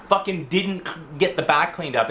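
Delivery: mildly heated retelling of a telling-off; retold angry yelling. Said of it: "I was yelling at the night manager".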